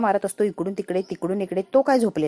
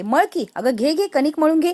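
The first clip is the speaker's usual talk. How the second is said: cranky, raised-voice insistence; irritable; 6 semitones higher, 4 dB louder than usual. Acted. Drunk Reva snaps back at the women in the kitchen, irritable. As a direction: push the order out higher and louder. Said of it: "ती आता चिडचिड करत असते".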